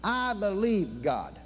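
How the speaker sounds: slow, sure declaration of faith; confident declaration. Shown as a demonstration. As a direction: stand tall and say it slowly. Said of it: "raise your head up, put your shoulders back, be somebody, and say".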